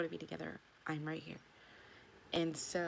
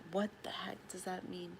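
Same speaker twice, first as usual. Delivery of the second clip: whisper. Real, not acted. Puzzled aside about the signs.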